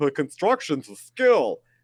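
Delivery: slow, drawn-out mocking put-on voice.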